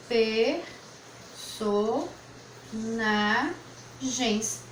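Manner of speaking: "personagens" said slowly, drawn out; slow whole word. Shown as a demonstration. Teacher writing the word on the board, slow. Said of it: "Por exemplo".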